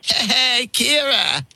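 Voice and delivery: put-on slow, drawn-out teen suitor act; lightly played boyfriend with stretched-out words; pretend boyfriend. Prankster posing as girl's boyfriend on the phone, slow boyfriend act. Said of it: "I'd pretend to be Kira's boyfriend".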